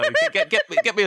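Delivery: very high, laughing through the words; laughing squeal. Real, not acted. Joking to friends about dead-body pudding, squealing with laughter.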